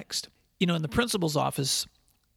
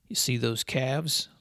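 slow southern drawl; 2 semitones lower, slower than usual. Retold or imitated. Uncle to boy, pointing at calves, in slow southern drawl. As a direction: ease it out like an old Southern farmer. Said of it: "said in his slow southern drawl".

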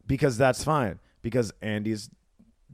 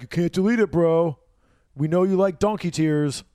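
louder, higher mock taunt; teasing friends; 4 semitones higher, 4 dB louder than usual. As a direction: crow it like friends teasing a bro. Friends teasing in retold posts.

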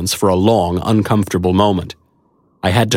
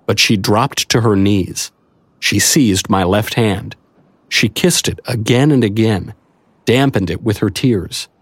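usual speaking voice

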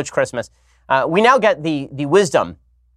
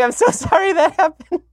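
mock apology squeezed out through laughter, much higher; imitating wife laughing. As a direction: play the wife cracking up mid-apology. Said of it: "Like, literally laughing".

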